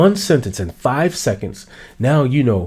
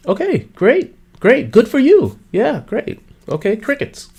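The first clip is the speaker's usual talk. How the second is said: bored brush-off; 10 semitones higher than usual. Acted.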